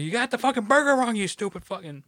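high, hammed-up snarl at a customer; mock rant at customer. Joking about yelling at a bad customer, hammed-up angry shout. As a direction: pretend to chew out a customer over burgers.

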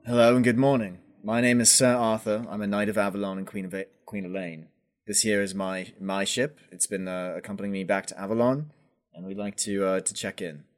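a lightly voiced courteous knight greeting the dockhand; formal, measured knightly introduction; knight Arthur, polite. Arthur in character at dock.

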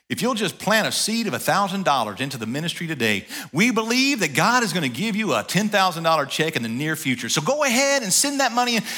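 a hint of a pushy TV preacher asking for money; mock televangelist pitch. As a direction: lightly parody a money-begging evangelist, rising at the end. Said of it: "I could make the commercial".

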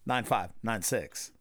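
slow number read. Shown as a demonstration. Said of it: "So again, that number is".

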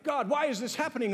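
acted high-pitched complaint to God; mock dismay. Preacher mimicking people when something happens, mock dismay. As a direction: play someone upset and demanding a reason. Acts out hasty reaction to trouble.

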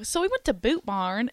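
Texas twang. Retold or imitated. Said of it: "he was like, "Okay, that was bad".

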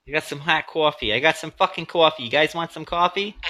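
lightly put-on New Yorker voice; a hint of New York coffee seller; New Yorker accent. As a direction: toss it off with a New Yorker twang. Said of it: "that New Yorker accent".

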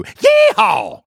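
a playful rodeo holler; mock cowboy yeehaw. Host imitates Joel at the climax, hammed-up yeehaw.

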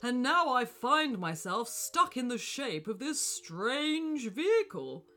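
calm gentle wise voice. Acted. Wizard explains to William.

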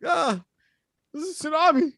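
put-on high, frightened child's cry. Scared girl telling grandpa about the tsunami, high voice. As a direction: pitch up like a scared twelve-year-old. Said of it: "The voice is a bit higher too".

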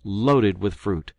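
loud and slow, eager. Acted. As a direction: stretch it out with delight. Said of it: "continued he".

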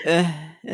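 put-on wordless "uh" of someone too drunk to talk; drunken wordless noise. Friends joking about being too drunk for sentences, drunken noise. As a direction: grunt it out, lost for words. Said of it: "We just make noises like".

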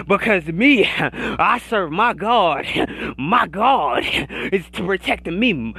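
rhythmic preacher cadence with audible gasps after phrases; church-style sermon rant; fired-up preaching. Real, not acted. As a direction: preach it hard, punctuating each phrase with a huffed breath. Preaches at full force.

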